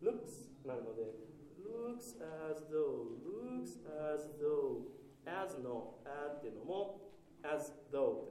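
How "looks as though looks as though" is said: slow, with the vowel in "looks" held long. Shown as a demonstration. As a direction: stretch the vowels in "looks as though". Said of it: "うっていうのがすごく短くなっちゃう".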